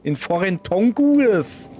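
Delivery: mock English accent. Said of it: "when I talk in foreign voices".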